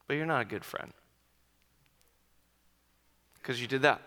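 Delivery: soft, understated nagging voice; little inner voice. Retold or imitated. Voice inside his head doubting his friendship, little inner voice. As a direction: drop softly into a quiet self-accusation. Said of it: "I've had this little whisper".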